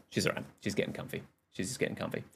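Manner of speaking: soft murmur about the dog; quiet. Real, not acted. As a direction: drop to a near whisper.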